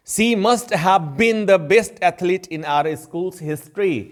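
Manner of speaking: very slow, careful English example sentence; slow example read. Shown as a demonstration. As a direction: read each word out slowly for the class. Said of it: "teacher reads example slowly". (धीरे-धीरे उदाहरण वाक्य पढ़ना)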